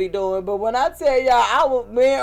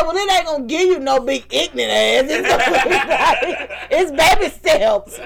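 laughing through it; 3 semitones higher than usual. Retold or imitated. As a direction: laugh while explaining gently. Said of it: "I said".

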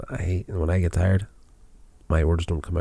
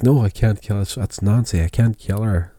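pleading refusal; 4 semitones higher, 5 dB louder than usual. Retold or imitated. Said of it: "he's like".

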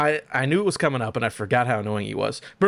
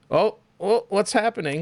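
mock panic; 9 semitones higher than usual. Acting attacked on camera.

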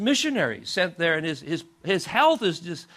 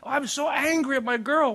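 higher-pitched mock scolding; mad mother scolding; 8 semitones higher than usual. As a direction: imitate a mother telling off her child. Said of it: "The mother was so mad".

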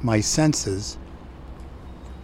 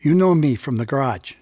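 put-on higher, friendly Chicano accent; Chicano-accented street talk, higher and lively; 6 semitones higher than usual. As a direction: imitate a kind Chicano neighbor's accent. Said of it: "with a sweet Chicano accent".

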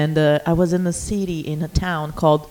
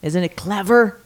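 muffled through shirt; 3 semitones lower than usual. Real, not acted. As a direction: voice muffled by fabric. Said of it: "talking through her shirt into the microphone".

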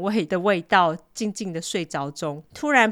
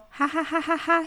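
mock laugh; 10 semitones higher than usual. Brother laughing at the kid.

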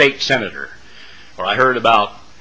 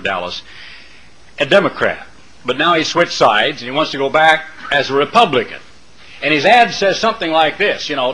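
ordinary talk, nothing marked

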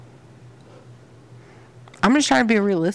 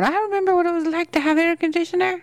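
put-on old storyteller voice; 10 semitones higher than usual. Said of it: "nieces and nephews going".

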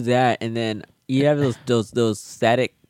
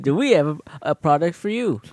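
infomercial; 4 semitones higher than usual. Pretend. Mock infomercial pitch.

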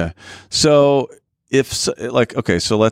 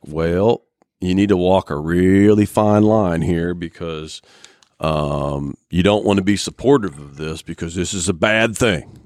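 put-on country accent. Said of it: "Why'd you do the country accent?".

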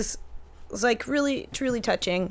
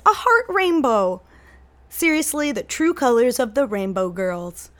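gushing mom; 2 semitones higher than usual. Retold or imitated. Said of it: "she did a heart in every color and said".

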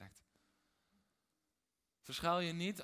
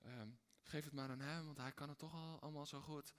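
softer, hesitant, trailing off; timid false modesty; meek deferral; 2 semitones lower, 6 dB quieter than usual. Retold or imitated. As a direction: shrink back and hand it over. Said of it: "heel nobel denken van".

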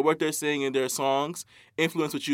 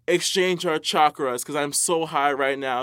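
mocking stoner voice. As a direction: play a dazed bragging stoner. Mocking stoners bragging they're high.

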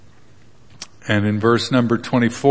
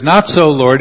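protesting; 3 semitones higher, 6 dB louder than usual. Acted. Peter protesting to God.

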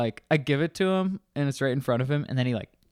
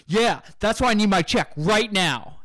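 louder, higher mock retort; angry customer; 8 semitones higher, 5 dB louder than usual. Customer snapping at the bartender, louder and higher. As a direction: snap back at the bartender.

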